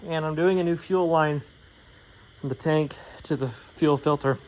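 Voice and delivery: winded after heavy lifting; out of breath. Real, not acted. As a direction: talk while catching your breath. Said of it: "Sorry, I'm out of breath".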